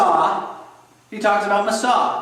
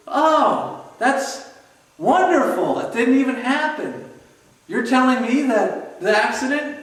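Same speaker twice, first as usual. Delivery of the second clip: higher, mock-delighted fury; bitterly sarcastic, pitched up; sarcastic outrage; 4 semitones higher than usual. Louis to Bobby, sarcastic mock delight over the staged test.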